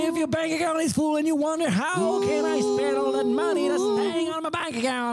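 infomercial. Pretend. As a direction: sell it like a TV pitchman. English ad for Utip support.

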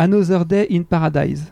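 song title tried in a light English accent; English accent attempt. Shown as a demonstration. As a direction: have a go at saying it in English. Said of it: "j'essaye l'accent". (une pointe d'accent anglais, timide)

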